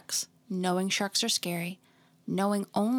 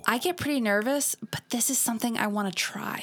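put-on valley girl. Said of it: "I'm gonna read it that way".

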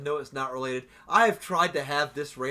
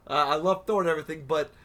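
excited; 3 semitones higher, 3 dB louder than usual. Retold or imitated. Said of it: "and I'm like".

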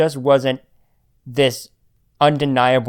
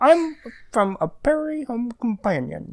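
radio host impression; 10 semitones higher than usual. Mimicking Garrison Keillor show.

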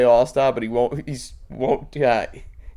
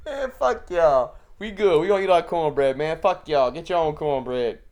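mock street rant; 3 semitones higher than usual. Quoting viral video.

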